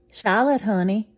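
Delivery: high, loud call across the house. Acted. Father calling his daughter from afar, loud and high. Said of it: "called out to his daughter".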